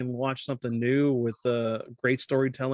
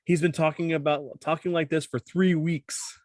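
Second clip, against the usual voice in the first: annoyed wife; 2 semitones higher than usual. Retold or imitated. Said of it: "this is David's wife".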